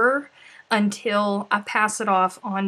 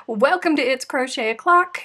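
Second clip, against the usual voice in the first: bright, louder welcome to the show; show intro greeting; 4 semitones higher, 5 dB louder than usual. Real, not acted. Host greets her crochet livestream viewers, excited. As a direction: announce the show name with a lift.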